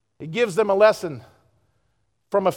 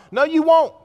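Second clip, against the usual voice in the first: loud, high preaching shout; a preacher's full-force shout; shouted warning; 7 semitones higher, 5 dB louder than usual. Real, not acted. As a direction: hammer the warning home.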